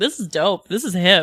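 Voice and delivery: put-on low, old-school jazz man voice. Retelling what a castmate said about the drummers: imitating an old jazz man. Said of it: "outs herself as an old jazz man".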